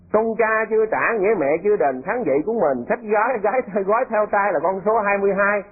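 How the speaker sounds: sing-song bingo call; bingo caller. Retold or imitated. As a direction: call it out like a lô tô singer. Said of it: "nghe nó hô lô tô".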